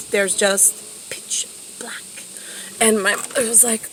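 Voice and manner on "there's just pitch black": slow, fading into a whisper; hushed dramatic. Retold or imitated. Daughter describing total darkness to her mother, hushed dramatic. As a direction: let the last words drop away, hushed and slow.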